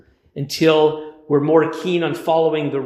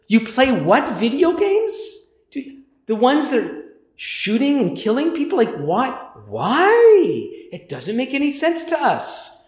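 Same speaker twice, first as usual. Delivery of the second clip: incredulous; 4 semitones higher than usual. Retold or imitated. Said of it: "It's like some of the".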